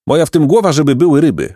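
high, self-assured boast; mildly boastful, lifted voice; proud. A narrator's reading. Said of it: "rzekł dumnie Jacek".

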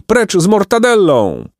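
high protest cry; calling out. A narrator's reading. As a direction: chant it like a rebelling crowd. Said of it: "wołali".

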